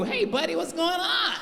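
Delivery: high-pitched mock white man; put-on high white-people voice; comedian's white-guy voice. Shown as a demonstration. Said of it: "that's the voice every black comedian use for white people".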